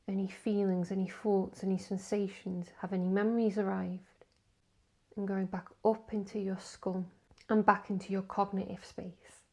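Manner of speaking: unhurried grounding-exercise delivery; guided meditation. Acted. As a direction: guide them step by step through the body.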